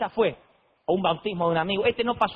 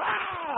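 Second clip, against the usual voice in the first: mock scream; 11 semitones higher, 6 dB quieter than usual. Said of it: "empiezan a gritar adentro".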